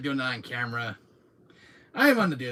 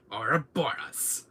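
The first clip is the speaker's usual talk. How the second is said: whisper; slower than usual. Retold or imitated. Villain bit, whispered.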